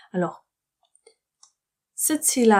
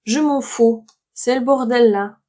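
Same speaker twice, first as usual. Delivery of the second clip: dialogue line; 3 dB louder than usual. Acted.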